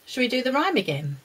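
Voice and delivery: quick, bright question; eager. Real, not acted. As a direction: rush it out eagerly. Bright offer to the children.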